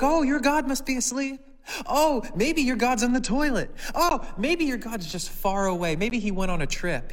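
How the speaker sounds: mocking. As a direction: tease them, high and loud. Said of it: "Elijah starts to mock them".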